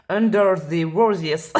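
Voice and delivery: slow, drawn-out mock English accent. Hammed-up English accent as she names her card deck. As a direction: say Lenormand as if it were English words. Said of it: "accent anglais".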